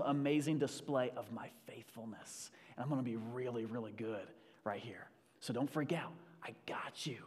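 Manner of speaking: soft, hushed reassurance, partly whispered; calm him like a patient father; reassuring God. Retold or imitated. God reassures him amid Red Sea.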